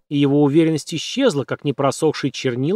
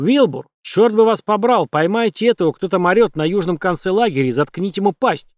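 shouted orders; 5 semitones higher than usual. Acted. Ромини кричит приказ.

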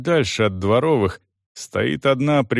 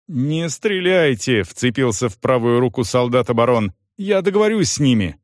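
urgent plea. Acted. Baron grabs arm, pleading.

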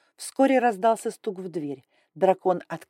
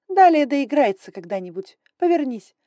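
higher, louder sharp command; imperious dragon lady; 7 semitones higher, 8 dB louder than usual. Acted. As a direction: order her to turn. Grai orders, loud.

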